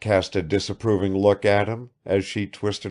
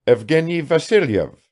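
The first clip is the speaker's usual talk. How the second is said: lightly voiced lazy man; a hint of lazy manliness; lazy, manly voice; 7 semitones higher, 4 dB louder than usual. A narrator's reading. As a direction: answer with manly nonchalance. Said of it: "answered Bazarov in a lazy but manly voice".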